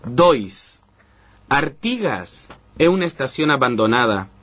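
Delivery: slow, measured reading of short poems; unhurried poetry recital in Portuñol. Acted. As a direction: read each numbered poem with pauses, savoring the words. Reads his poems aloud.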